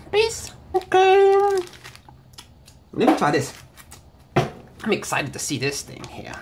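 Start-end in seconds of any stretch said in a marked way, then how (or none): 4.8-6.4 excited hushed whisper. Real, not acted. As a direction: breathe it out in a whisper. Excited whisper over new candy.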